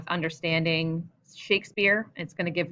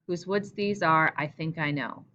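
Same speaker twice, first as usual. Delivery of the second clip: poem reading. Shown as a demonstration. Teacher reading Frost to the class, poem style. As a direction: read as a line of verse. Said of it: "famous line from Stopping by Woods".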